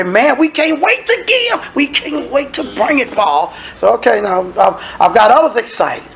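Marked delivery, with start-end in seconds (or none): 0.0-3.5 eager givers. Retold or imitated. Church members eager to give to Paul, high and pleading. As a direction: sound like poor folks begging to give.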